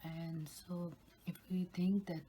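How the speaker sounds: ASMR whisper. Real, not acted.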